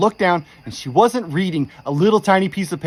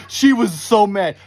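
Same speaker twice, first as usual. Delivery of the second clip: slow, laughing through the words; 5 semitones higher, 5 dB louder, slower than usual. Real, not acted. Telling listeners about his furious wife, laughing slowly. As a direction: chuckle while telling how mad she was.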